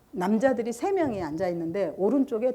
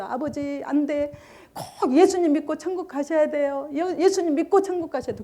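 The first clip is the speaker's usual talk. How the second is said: retold tearful plea; 5 semitones higher than usual. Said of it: "제가 막 울면서".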